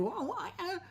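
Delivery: sweet words through irritation; annoyed husband faking sweetness; strained sweetness. Retold or imitated. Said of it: "intonasi berubah".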